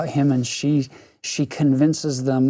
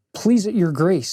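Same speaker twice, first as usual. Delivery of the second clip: cold and polite; 4 semitones higher than usual. Acted. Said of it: "very coldly and politely".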